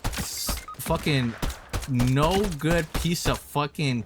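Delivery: real anger, each curse slowed and spat out; fuming, words dragged out with rage; heated cursing. Real, not acted. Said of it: "I'm too heated to even try and focus".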